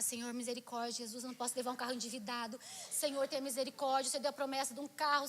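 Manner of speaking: low, rapid begging to God; pleading prayer. Retold or imitated. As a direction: rattle off a plea for mercy. Retold anxious prayer.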